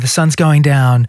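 slow, lightly voiced lullaby calm; Scarlett Johansson calming the Hulk. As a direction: ease him down slowly, sun setting. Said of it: "Scarlett Johansson to the Hulk in the Avengers".

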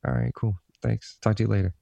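imitating a casual, noncommittal sign-off; mock-casual guy goodbye; offhand brush-off. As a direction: toss it off lightly, dodging the sentiment. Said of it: "It was always like this".

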